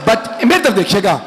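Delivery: sorrowful majlis recitation, pleading at times; lamenting recitation. Acted. Preacher telling the infant's martyrdom to mourners, lamenting. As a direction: draw the mourners into the grief.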